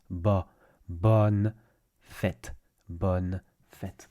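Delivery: bonne with an open vowel and sounded N, then fête; non-nasal bonne, broken down. Shown as a demonstration. Teacher breaking down bonne fête for learners, non-nasal. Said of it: "There's no nasalized on sound".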